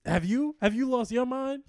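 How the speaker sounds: mock indignant comeback. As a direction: throw the question back with rising pitch. Boyfriend throws insult back in skit.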